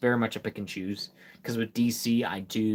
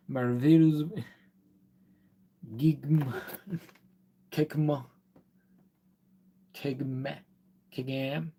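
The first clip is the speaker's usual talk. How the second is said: sounding out "Magic" in reverse, halting; trial-and-error backwards word; backwards speech; 3 semitones higher, slower than usual. Shown as a demonstration. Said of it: "I'm trying to say it backwards".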